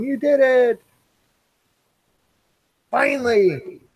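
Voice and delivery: high-pitched cheer read from chat; mock celebratory yell. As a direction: voice a viewer's drawn-out triumphant yell. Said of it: "Chad's yelling".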